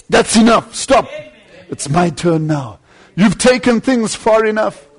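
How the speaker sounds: the Lord telling the devil to stop; stern command. Retold or imitated. The Lord's quoted command.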